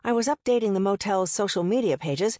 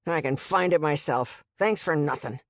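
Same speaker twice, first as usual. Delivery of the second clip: sneering; 2 semitones lower than usual. Acted. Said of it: "then sneered".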